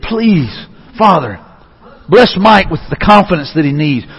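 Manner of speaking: earnest, measured plea to God; lightly acted begging, lingering on each "please"; pleading prayer. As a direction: plead gently on someone's behalf. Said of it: "I see someone almost begging, pleading".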